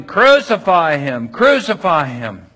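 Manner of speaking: loud, slow chant of a mob; mock mob chant; shouting crowd. A narrator's reading. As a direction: call it out slowly like an angry crowd. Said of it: "began shouting".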